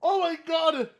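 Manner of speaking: high, loud whoops; real excited shouting. Real, not acted. Streamer reacts to the clip nailing Griffin, thrilled shouting. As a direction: explode as if someone landed a knockout line.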